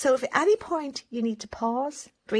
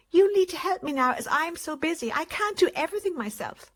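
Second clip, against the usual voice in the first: overwhelmed parent; 6 semitones higher than usual. Retold or imitated. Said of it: "And here they are".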